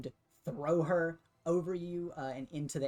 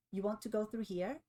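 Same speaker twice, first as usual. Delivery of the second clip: higher, teasing character voice; playful taunt; 6 semitones higher than usual. Acted. Game master as Triff challenging the intruders, playfully. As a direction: ask it higher, as if after a little giggle. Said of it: "gives a little giggle and a wave and just says".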